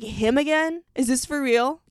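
retold outburst at the TV screen; yelling at the TV in disbelief; screaming at the TV. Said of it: "I was screaming at the T V".

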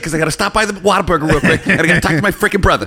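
mock lazy cop. Parodying cop's excuses.

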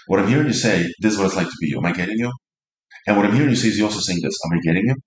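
rattled off, going through the motions; mechanical parroting. Shown as a demonstration. Receiver mirroring partner's words back with mechanical detachment. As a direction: rush through it like reading back a script. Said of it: "in that tone of voice".

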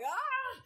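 sharp high startled yelp; panicked yelp. Retold or imitated. Driver nearly hitting the neighbor's fence, high startled yelp.

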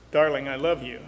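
flat, slightly low declaration of love; flat delivery. Shown as a demonstration. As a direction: say it evenly, with no feeling put into it. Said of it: "but it's rather flat".

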